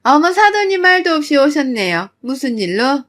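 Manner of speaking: surprised. Retold or imitated. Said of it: "적잖게 놀란 시모는".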